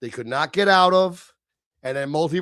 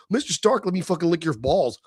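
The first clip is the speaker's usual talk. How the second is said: lightly voiced simpering teen, mildly higher; mock fawning fanboy; 3 semitones higher than usual. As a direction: fawn over Mister Stark like a starstruck kid, mockingly. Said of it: "These new movies with this, like".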